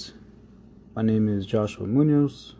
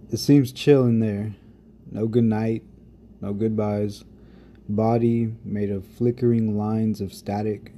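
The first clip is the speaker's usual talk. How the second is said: spoken-word poem, unhurried; poem recitation. Acted. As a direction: let each image land with pauses. Reads his poem aloud.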